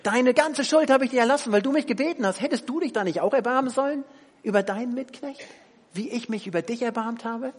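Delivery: loud, stern royal rebuke; angry king. Retold or imitated. The king rebukes the unforgiving servant, loud and stern. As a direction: scold the servant as the betrayed king. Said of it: "Und er sagt".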